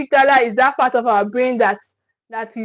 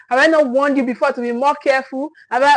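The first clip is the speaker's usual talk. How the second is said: scolding yell; faster than usual. Retold or imitated. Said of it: "you start yelling".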